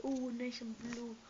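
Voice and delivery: slow, savoring each word; slow drawn-out. Shown as a demonstration. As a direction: stretch it out admiringly. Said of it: "repeated take".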